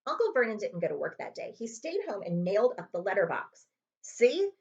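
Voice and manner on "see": explaining. Acted. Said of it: "he explained to Aunt Petunia".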